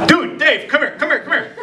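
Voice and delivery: high, eager call; excited calling. Retold or imitated. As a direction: call your buddy over. Calling coworker over.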